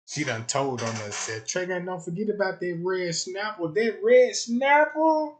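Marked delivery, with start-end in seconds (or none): 1.5-5.3 drawn-out teasing call, louder at the end; sing-song tease, stretching snapper; teasing girlfriend. Retold or imitated. Girlfriend teasing Trey about the red snapper, drawn-out sing-song.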